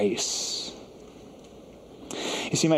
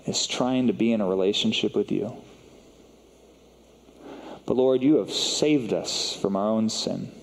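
unhurried prayer with long pauses. Real, not acted. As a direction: pray aloud in short, measured phrases. Leads a closing prayer.

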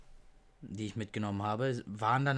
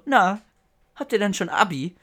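higher and louder jovial politician; Peter Tschentscher; 8 semitones higher, 10 dB louder than usual. Retold or imitated. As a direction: greet the teens like a chummy mayor. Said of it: "und dann hat er mich angeguckt und so". (höher und lauter, jovialer Politiker)

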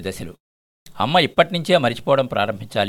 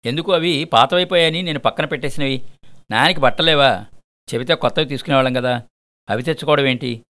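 mildly raised, irritated voice; angry, irritated, loud; 2 semitones higher than usual. Acted. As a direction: push back at them, half annoyed. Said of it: "కొంత కోపంగా, కొంత చిరాగ్గా పెద్ద గొంతుతో".

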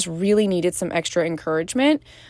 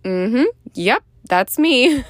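eager agreement; 4 semitones higher, 5 dB louder, slower than usual. Retold or imitated. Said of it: "raising my hand like".

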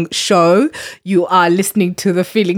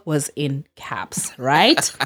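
whispered aside; 5 semitones lower, 6 dB quieter, much slower than usual. Real, not acted. Emphatic aside about the caps.

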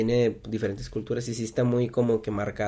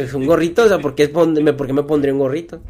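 louder, incredulous questioning; retold baffled protest; 7 dB louder than usual. Retelling a slang mix-up, baffled protest. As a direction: protest as if totally lost.

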